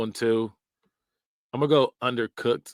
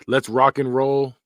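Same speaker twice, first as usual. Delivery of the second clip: slow, louder cheesy dad hype; mock corny dad; 5 dB louder, slower than usual. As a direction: ham up the cheesy dad line. Reads saying, then again plainly.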